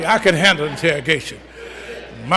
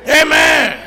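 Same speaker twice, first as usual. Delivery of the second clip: preaching shout; 7 semitones higher than usual. Acted. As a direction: ring it out to the whole church. Preacher proclaiming.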